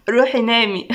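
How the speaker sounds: playful dismissal ending in a chuckle; teasing laugh. Acted. Domoa dodges her nosy friend, teasing laugh. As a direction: send her off, then giggle.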